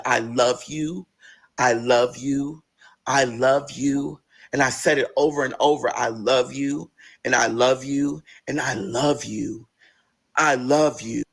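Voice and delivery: slow, low, tender repetition. Retold or imitated. Hugging her grieving grandmother.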